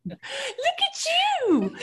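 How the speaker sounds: very high singsong cooing; imitated movie line. Said to her cat all the time, very high imitated coo. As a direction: greet a pet in a high squeal. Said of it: "I say that to my cat".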